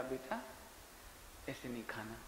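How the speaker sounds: soft, gentle first warning from mother-in-law; mother-in-law quietly tells daughter-in-law not to eat like that; said softly. Retold or imitated. Mother-in-law to daughter-in-law, a soft gentle correction. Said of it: "पहली बार धीरे से कहा".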